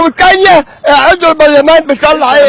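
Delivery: worked-up, insistent question. Real, not acted. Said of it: "وطي صوتك".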